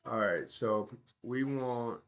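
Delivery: sore throat, not fully back; swollen tonsils voice. Real, not acted. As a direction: speak through a recovering sore throat. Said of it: "My voice hadn't come back".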